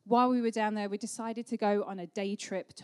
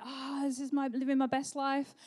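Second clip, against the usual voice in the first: put-on higher-pitched blissful little girl; imitated delighted child; 5 semitones higher than usual. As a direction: lightly voice a thrilled toddler. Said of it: "She was like".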